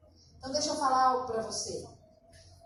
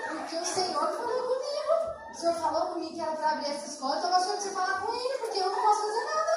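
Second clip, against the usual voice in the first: fast, loud, higher pleading prayer; fervent prayer; 6 semitones higher, 4 dB louder, faster than usual. Retold or imitated. Wife praying urgently for her husband, fast and loud. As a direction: pour it out to God, racing.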